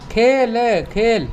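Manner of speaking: खेल said slowly twice for the class to follow; slow model reading. Shown as a demonstration. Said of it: "अब यहाँ पढ़ना सीखेंगे हम".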